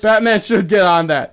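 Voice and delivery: a lightly voiced superhero line; mock heroic voice. Friend repeating the joke in a mild hero voice. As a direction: say it like a caped crusader, lightly. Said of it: "Stop doing that".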